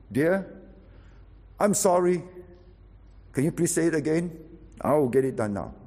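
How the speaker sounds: apology. Shown as a demonstration. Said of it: "All you need to say is".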